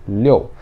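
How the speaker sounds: "liu" as a firm falling "liou"; strong fourth tone. Shown as a demonstration. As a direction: drop "liu" decisively, with an o inside. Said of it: "ele é forte".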